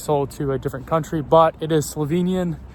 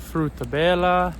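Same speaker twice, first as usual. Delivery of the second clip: Frutta Bella said with a put-on Italian lilt, rolled and sung out; odd Italian-ish accent; 3 semitones higher, slower than usual. Real, not acted. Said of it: "I know I'm saying that in a weird accent".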